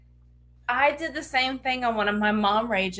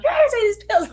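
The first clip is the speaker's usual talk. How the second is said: high, loud mock order; retold mom rage; 13 semitones higher, 7 dB louder, faster than usual. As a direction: play a mom losing her patience. Acts out forcing pills on son.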